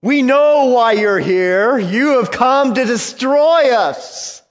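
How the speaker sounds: high, loud defiant cry; loud demon accusation. Acted. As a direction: hurl it back at Jesus. Voicing the demons' words again.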